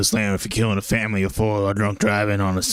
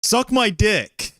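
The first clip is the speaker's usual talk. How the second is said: drawn out slowly in a silly voice; silly put-on voice; 12 semitones higher, much slower than usual. Friend teasing friend in a slow goofy voice. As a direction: stretch it out like a goofy joke voice. Mock deep joke insult.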